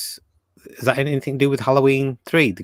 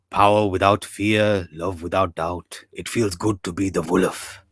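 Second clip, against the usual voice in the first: put-on Jack Nicholson accent; 3 semitones lower, slower than usual. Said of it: "I didn't wanna put the accent on too strong".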